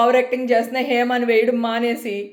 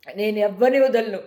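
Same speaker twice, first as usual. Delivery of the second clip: slow, lower, deadly serious vow; grim vow; 7 semitones lower than usual. Real, not acted. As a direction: lower and slower, each word a promise. Vowing revenge on trolls. (నెమ్మదిగా, లోగొంతుతో గట్టి ప్రతిజ్ఞ)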